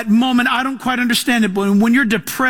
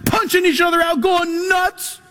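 frenzied; 8 semitones higher than usual. Retold or imitated. Frenzied prophets of Baal.

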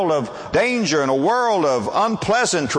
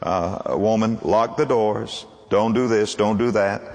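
protective husband; 8 semitones lower than usual. Retold or imitated. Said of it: "they'll say".

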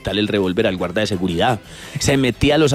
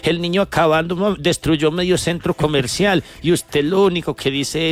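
sarcastic lady; 3 semitones higher than usual. Retold or imitated. Lady mocking the calm father with fake admiration. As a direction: praise him sweetly but mean the opposite. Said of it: "Cuando la señora no se aguantó más".

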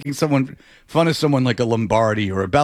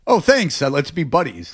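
sarcastic. Retold or imitated. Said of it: "it's not like".

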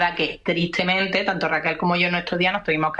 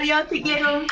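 much higher, sweet cooing goodbye; cooing a last goodbye to a friend; cutesy affectionate farewell; 8 semitones higher than usual. Real, not acted. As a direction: sing out a fond goodbye. Gushing farewell between friends.

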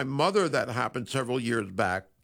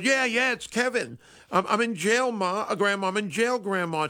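put-on higher, urgent boy's voice; grandson in trouble; 6 semitones higher than usual. Fake grandson tells grandma he's in jail, higher urgent voice. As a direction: plead like a grandson calling from jail. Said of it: "And he goes".

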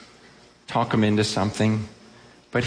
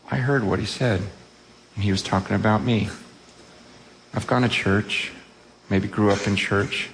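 imagined churchgoer owning up in a lowered pitch; sober confession; 2 semitones lower than usual. Acted. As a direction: confess it simply, phrase by phrase. Voices a listener's sober confession.

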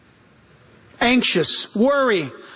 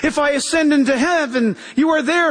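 higher-pitched, mild cry to God; 4 semitones higher than usual. Retold or imitated. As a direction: voice David's plea, lightly raised. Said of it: "David cried out".

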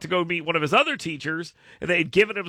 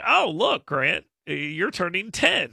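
dad voice; slower than usual. Retold or imitated. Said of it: "I start doing the dad thing".

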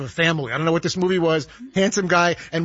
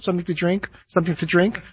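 lightly imitated attendant offering snacks down the aisle; flight attendant singsong. Passenger imitating a flight attendant's mock singsong. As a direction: chant the snack list like a tired attendant. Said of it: "repeat five thousand times".

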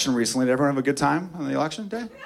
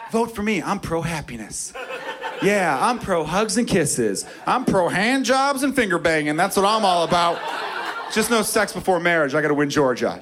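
mock candidate speech; 4 semitones higher than usual. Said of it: "That's like saying".

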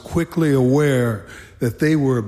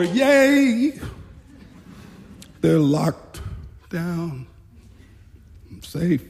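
mock cheer; much slower than usual. Nervous new guard sees the inmates locked down, cheering. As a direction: cheer as the last doors shut. Acting relief as cells close.

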